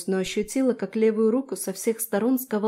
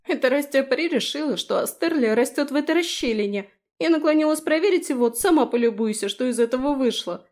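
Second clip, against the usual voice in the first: higher, louder whining blame; whiny complaint; 5 semitones higher, 5 dB louder than usual. Acted. Felicia blames her fairy to Daphne, whining.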